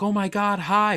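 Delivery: high-pitched trucker. Retold or imitated. Trucker greeting a dog, high-pitched and super friendly. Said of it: "high-pitched".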